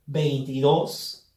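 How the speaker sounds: "Veintidós" with the voice's force on final dós; final-syllable stress. Shown as a demonstration. Teacher showing students an aguda, "Veintidós" stressed on dós. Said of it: "lleva la fuerza de voz".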